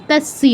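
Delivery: "তস্য" as tas-siya; s plus y. Shown as a demonstration. Teacher building the word, "তস্য" as tas-siya. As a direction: keep a clear s and y in "তস্য". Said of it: "এর সাথে ইও আছে".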